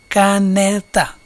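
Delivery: caneta slowly split into ca-ne-ta; syllable by syllable. Shown as a demonstration. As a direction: stretch caneta, one syllable per beat. Exemplo de divisão em sílabas. (caneta dividida em sílabas, devagar)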